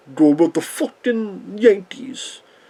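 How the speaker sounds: put-on New York Brooklyn accent. Recalling a missed bus, imitating Nick DiMichi's Brooklyn accent. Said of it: "has a New Yorker like accent, like Brooklyn".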